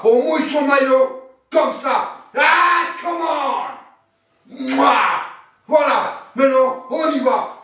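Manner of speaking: gym bro. Acted. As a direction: fire up the squad like a gym bro. Hyping up the team.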